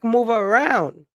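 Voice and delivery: slow, drawn-out dismissal; lightly voiced dismissive Lauren; imitating Lauren. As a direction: tell them to move along, slowly. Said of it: "She'll tell you real quick".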